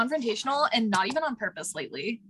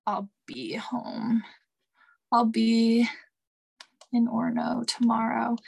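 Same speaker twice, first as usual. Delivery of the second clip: slow, halting words while typing; absent-minded, stretched-out text dictation; dictating a text; slower than usual. Real, not acted. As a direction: say it piece by piece as you type.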